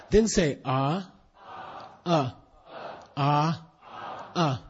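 ah drawn out as a long open a; long Sanskrit a. Shown as a demonstration. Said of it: "Ah is a long Sanskrit A".

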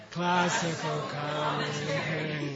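somewhat slow, syllables spaced; measured classroom reading; slow read-along. Shown as a demonstration. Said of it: "How about this one?".

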